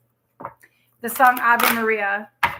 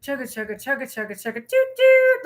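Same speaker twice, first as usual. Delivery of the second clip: imitated train noise. Reader voices the train she hears, train noises. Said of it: "I'm hearing the chugga".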